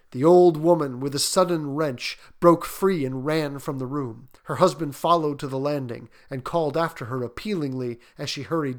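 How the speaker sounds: measured suspense storytelling; story narration. A narrator's reading. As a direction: read it like an eerie bedtime tale, deliberately.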